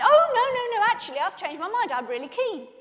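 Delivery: mock-eager protest, starting high and settling down; high opening no's, tumbling into a keen claim; retold eager backtracking. Backtracking to the lads after the dare, mock-eager. Retold sudden change of mind.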